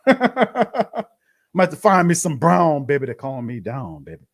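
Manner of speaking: slow, amused, teasing about a drink; laughing drawl. Pretend. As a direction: laugh it out slowly, drawing out the words. Joking about drinking to calm down.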